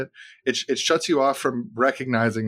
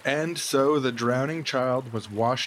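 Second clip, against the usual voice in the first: storytelling. A narrator's reading. Fable narration over music.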